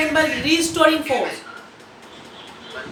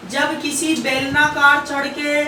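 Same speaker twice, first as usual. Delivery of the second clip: slow dictation; slower than usual. Shown as a demonstration. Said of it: "लिखो सभी बच्चे".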